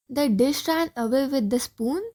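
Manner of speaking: amused question with a rise on ran; lightly amused disbelief at the dish ran away with the spoon; a hint of a laugh in the voice. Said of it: "Oop, laughing".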